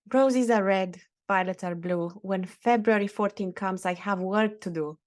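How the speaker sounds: reciting a little rhyme with a mock flourish; poem recital. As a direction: recite it like a poet. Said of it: "Look at the poet in you".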